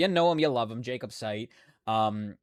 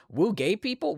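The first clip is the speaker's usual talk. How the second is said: excited cheer; 8 semitones higher, 3 dB louder than usual. Real, not acted. Cheering to chat.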